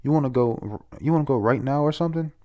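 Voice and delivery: half-hearted retold yell, rising into a challenge; mock angry yelling. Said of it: "she's yelling at him".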